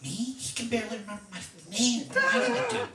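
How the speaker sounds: high, climbing mock disbelief; hammed-up who-me protest; incredulous. Dave balks at talking to Jack, high mock disbelief. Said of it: "I'm like".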